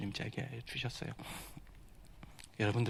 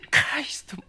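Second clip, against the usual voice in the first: breathy whisper of KAIST; whispered plea; 11 semitones higher than usual. Retold or imitated. Fasting student whispering his plea to God. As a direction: hush it like a secret prayer.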